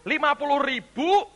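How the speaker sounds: emphatic preaching. Real, not acted. Preacher teaching the congregation about letting go, emphatic preaching. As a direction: press each point home to the congregation.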